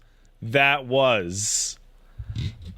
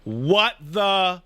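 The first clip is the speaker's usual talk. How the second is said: put-on kid voice; 5 semitones higher, much slower than usual. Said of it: "So then he says".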